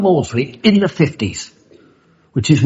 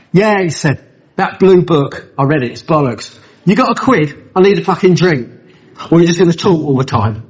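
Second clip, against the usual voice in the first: put-on drunk's rant; 5 semitones higher than usual. Drunk ranting at the newcomer.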